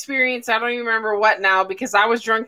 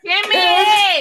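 excited greeting; 7 semitones higher, 4 dB louder than usual. Real, not acted. Greeting a stream arrival.

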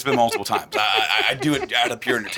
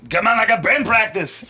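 laughing shout; 9 semitones higher, 5 dB louder than usual. Retold or imitated. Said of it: "And he's like".

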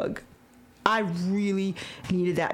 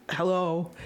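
whisper; 3 semitones lower than usual. Retold or imitated. Mock greeting aside.

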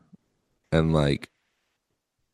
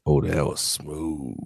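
slow, soft crooning puppet; 2 semitones lower, 4 dB quieter, slower than usual. Pretend. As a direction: purr it like a smooth puppet. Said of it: "That voice".

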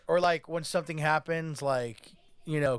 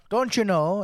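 louder, higher Minnesota catchphrase; mock Minnesota accent; 5 semitones higher, 6 dB louder, slower than usual. Host testing what he knows of Minnesota talk, mock Minnesota accent. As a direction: put on a Minnesota "don't you know". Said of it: "all about the Minnesota accent is".

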